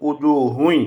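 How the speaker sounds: উজুহুন ending in a nasal "hui"; merged tanween with ghunnah. Shown as a demonstration. Teacher repeating the required reading, nasal merge. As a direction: let the n of উজুহুন become a nasal y. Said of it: "উচ্চারণ করতে হবে".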